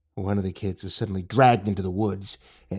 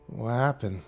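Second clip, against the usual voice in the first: shaky voice; 4 dB quieter, slower than usual. Acted. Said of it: "in a shaky voice".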